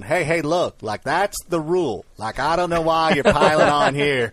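put-on lightly done Southern accent; easygoing imitation of a Southerner arguing. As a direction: plead the case in a mild Southern drawl. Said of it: "somebody with a Southern accent going".

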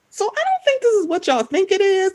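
skeptical aside. Retold or imitated. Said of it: "I was like".

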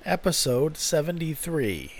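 a loud, badly faked Australian opener; mock Australian accent, half-hearted; terrible Australian accent. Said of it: "That was a terrible accent".

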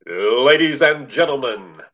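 booming PA call, high, loud and slow; echoing stadium announcer. Retold or imitated. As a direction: stretch every word out over the stadium speakers. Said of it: "the first P A announcer at a Cubs home game to say".

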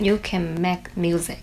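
slow, careful, can kept light; slow practice repeat. Shown as a demonstration. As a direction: repeat slowly, can unstressed. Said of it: "那我们再来肯定句".

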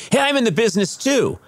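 high-pitched imitation of eager bragging; eager fan. Delivery man telling a TV star his background, mock eager. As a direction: announce it high, mimicking a keen fan.

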